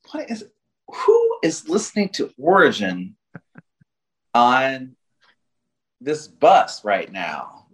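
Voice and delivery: baffled, slowing at the end; incredulous. Retold or imitated. Retold baffled thought on bus.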